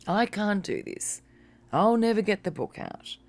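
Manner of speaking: mock victim lament. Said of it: "victim mentality where we say".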